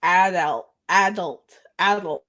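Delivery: "adult" stressed up front, tried repeatedly; tricky word attempts. Shown as a demonstration. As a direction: say each "adult" separately, testing it. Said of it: "another word that's hard for me".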